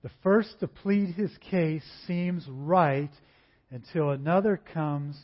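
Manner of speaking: slow, measured reading of the verse; preacher reading Proverbs to the congregation, slow and measured; scripture reading. Shown as a demonstration. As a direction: read it out deliberately, like a lectern reading.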